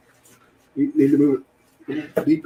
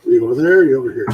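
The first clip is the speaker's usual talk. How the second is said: raised voice, calling someone over; calling from far away; 2 semitones lower, 9 dB louder, much faster than usual. Real, not acted. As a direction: call out across the room. Calling out to someone across the kitchen.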